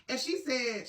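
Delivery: ordinary delivery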